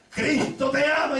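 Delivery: calling out. Retold or imitated. Preacher with megaphone calling out.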